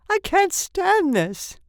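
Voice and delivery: high, loud, hurried outburst; hoarse cry. A narrator's reading. Mister Button at the hospital, crying out hoarsely. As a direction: cry out that it is unbearable. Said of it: "he cried hoarsely".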